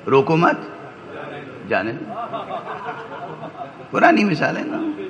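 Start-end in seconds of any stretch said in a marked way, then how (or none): 0.1-2.4 "روکو مت" joined with a rise, pause, then "جانے دو" dropped soft; let-go reading. Shown as a demonstration. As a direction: pause after "مت", not after "روکو". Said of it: "اپوزٹ، متضاد".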